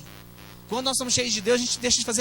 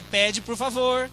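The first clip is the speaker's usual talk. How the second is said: "Pede, por favor" stretched out very slowly, word by word; slow teaching; much slower than usual. Shown as a demonstration. Father slowly modeling "Pede, por favor" for his little daughter. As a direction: spell "Pede, por favor" out slowly for a three-year-old. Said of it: "Aí, enquanto pe".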